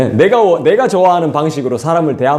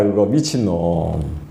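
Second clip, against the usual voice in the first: low, slow, under the breath; muttered aside; 9 semitones lower, 5 dB quieter, much slower than usual. Shown as a demonstration. Preacher to congregation, repeating the verdict under his breath. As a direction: drop the voice and say it to yourself. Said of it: "repeated as a low aside".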